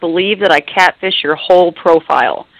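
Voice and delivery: ordinary talk, nothing marked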